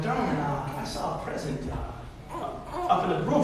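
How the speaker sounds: playing coy. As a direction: feel out your wife with hushed, feigned innocence. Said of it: "I'm being all coy".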